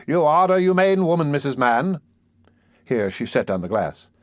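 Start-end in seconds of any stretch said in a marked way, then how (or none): 0.0-2.0 approving. Acted. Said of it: "said Mister Bumble approvingly".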